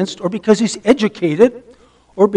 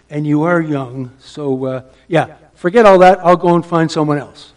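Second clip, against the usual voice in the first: mock ironic God; 4 semitones lower than usual. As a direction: play the Lord's reply as gentle irony. Preacher voices God's ironic reply.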